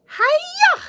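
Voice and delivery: high, loud "hiya!" like a martial arts chop; hammed-up fighting yell; playful battle cry; mock karate shout.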